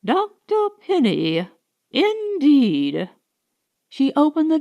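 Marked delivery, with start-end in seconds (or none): 0.1-3.1 scornful retort. A narrator's reading. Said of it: "in a tone that amazed both".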